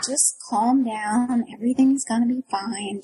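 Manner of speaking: drawn-out, slow reassurance; lightly voiced calming parent; calming mother. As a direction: soothe slowly, imitating a patient mom. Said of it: "mom's just like".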